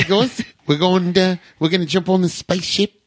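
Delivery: hammed-up New Zealand guy greeting the room; half-hearted New Zealand accent; attempted New Zealand accent. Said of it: "I can't do a New Zealand".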